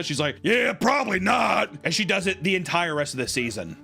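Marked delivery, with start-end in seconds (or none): 0.4-1.7 high, slow mock reply; Taylor 흉내. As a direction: stretch it out high like a mocked reality star.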